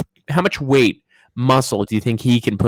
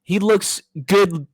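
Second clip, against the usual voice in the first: laughing; 6 semitones higher, slower than usual. Pretend. Comic high slowed repeat.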